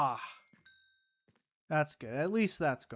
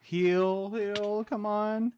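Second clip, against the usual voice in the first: urgent pleading; 7 semitones higher, 5 dB louder, much slower than usual. Real, not acted. Urging heal mid-fight.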